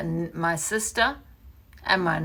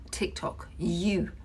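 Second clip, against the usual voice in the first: whisper; 7 dB quieter, slower than usual. Real, not acted. Whispered aside.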